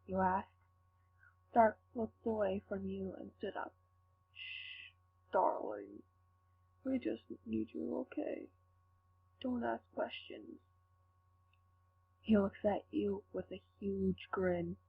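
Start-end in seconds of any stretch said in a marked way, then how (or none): 4.3-10.6 hushed warning. Acted. Villain hushes the questioning captive.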